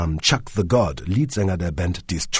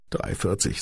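softer, hesitant answer; 6 dB quieter than usual. Acted. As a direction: answer timidly, unsure. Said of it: "sagte Kunze zögernd".

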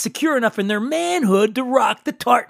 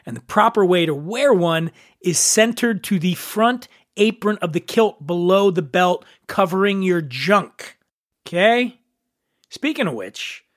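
ordinary talk

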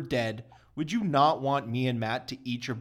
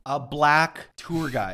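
deadpan answer; 6 dB louder, slower than usual. Real, not acted.

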